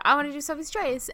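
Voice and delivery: her own earlier words, lightly replayed; quoting herself, mildly eager; retelling own request. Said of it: "I actually said".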